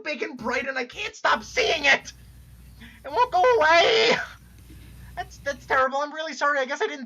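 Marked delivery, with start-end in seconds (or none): 3.0-4.1 high, loud wail through tears; crying out. Acted. Jade wails to the one who brought her back, sobbing loudly. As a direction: let it burst out as a sob. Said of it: "this fucking crying's making me lightheaded".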